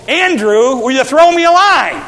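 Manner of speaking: hammed-up shout to a brother; mock call to brother Andrew; mock plea.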